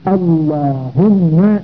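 slow "اللهم" with a long held double m; doubled mim. Shown as a demonstration. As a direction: stretch "اللهم", leaning on the mim. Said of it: "بميم مشددة".

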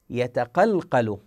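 يتقلقل drawn out, each qalqala bounce clear; slow recitation. Shown as a demonstration. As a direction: stretch يتقلقل slowly. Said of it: "ماذا يقول في دعاء كميل". (تلاوة بطيئة)

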